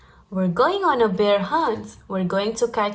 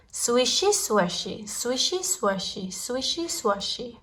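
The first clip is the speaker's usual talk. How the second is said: swishy swashy fading softer each time; fading swish; 5 dB quieter than usual. A narrator's reading. Reading to a child, grass sounds fading softer. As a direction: let the grass sounds die away.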